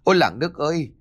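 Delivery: high-pitched cry for help; panicked roar. A narrator's reading. Attacked daughter-in-law calling the villagers, panicked yell. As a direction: cry out to the whole village in alarm. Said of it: "liền gầm lên".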